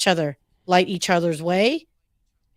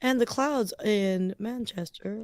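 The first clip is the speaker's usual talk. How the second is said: slow, softer mock weather forecast; weather person; 5 dB quieter, slower than usual. Joking over a map with a co-host, mock forecaster. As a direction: present it slowly like a weather report. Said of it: "I feel like I'm a weather person".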